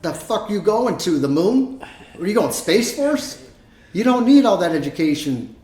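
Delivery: high mock disbelief; incredulous. Uncle scoffing at nephews' tuition, high disbelief. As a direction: scoff at the absurd cost.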